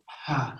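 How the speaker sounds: gentle sighed ha sound; soft breathy ha. Shown as a demonstration. Teacher demonstrates the ha sound to the child, gently. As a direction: breathe out an easy ha. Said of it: "say this H sound out".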